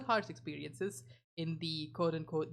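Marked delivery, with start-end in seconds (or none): 0.0-1.0 "harsh experiences" slow and sarcastic; sarcastic air quotes. Shown as a demonstration.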